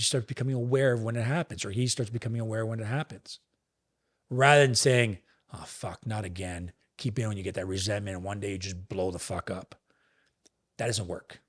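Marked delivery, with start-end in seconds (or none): 5.5-6.7 resigned grumble. Retold or imitated. Imitating a resigned inner reaction.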